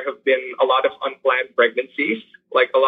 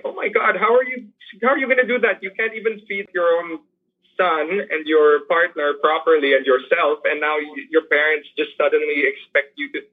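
shocked disbelief; 3 semitones higher than usual. Retold or imitated. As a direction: replay your own stunned alarm at the news. Retelling own shocked reaction.

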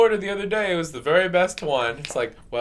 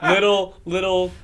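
laughing question. Retold or imitated. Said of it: "it's like".

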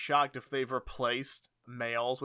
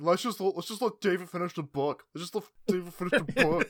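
imitating a co-host; 4 semitones higher than usual. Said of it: "You're like".

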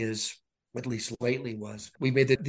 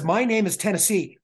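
bubbly nurse; 6 semitones higher, 4 dB louder than usual. Retold or imitated. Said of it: "She says".

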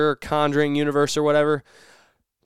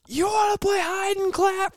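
much higher, slow eerie singsong; creepy movie voice. Retold or imitated. Friend hiding in the wardrobe plays the horror line, eerie high taunt. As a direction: taunt like a ghost child from a horror film. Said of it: "and he goes".

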